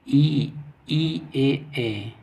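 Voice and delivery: ई and ए held as clear isolated vowels; front vowel demo. Shown as a demonstration. Teacher showing students front vowels, demonstrative. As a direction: sound out ई, then ए, each drawn out. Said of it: "अग्र स्वर जीभ के अग्र भाग से उच्चारण".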